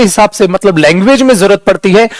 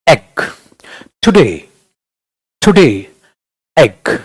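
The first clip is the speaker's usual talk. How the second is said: low, lazy word-by-word delivery; lazy sound; 7 semitones lower, much slower than usual. Shown as a demonstration. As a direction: let each word drop without energy. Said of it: "lazy रूप में बोलते हो।". (सुस्त, ढीली, नीची आवाज़ में)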